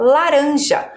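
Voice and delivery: laranja with a light tapped R; weak R. Shown as a demonstration. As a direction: model laranja for pupils to repeat. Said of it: "O R tá fraco".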